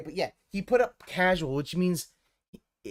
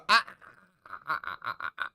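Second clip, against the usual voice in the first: mock goat laugh; 2 semitones lower than usual. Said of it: "some of your laughing, you go".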